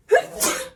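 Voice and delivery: voiceless sneeze; acted sneeze cutting the sentence. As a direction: break off with a sneeze. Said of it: "a little bit of a sneezing fit".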